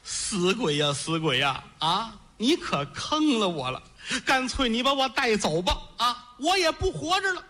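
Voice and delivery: a widow keening over her dead husband, voice rising; wailing widow. Acted. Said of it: "一边揉着眼睛一边哭".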